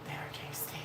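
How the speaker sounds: low muttered aside; half under the breath, reading it to herself; quiet mumble to the chat; murmured. Real, not acted. Reading a chat comment aloud.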